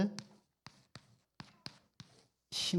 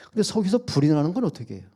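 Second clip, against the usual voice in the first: ordinary talk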